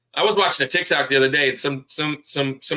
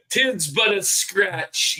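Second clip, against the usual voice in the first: higher, drawn-out comic quote; mock British film quote; 5 semitones higher, slower than usual. Host quoting Monty Python to co-host who likes British humor, mock British quote. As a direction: stretch it out like a hammy knight.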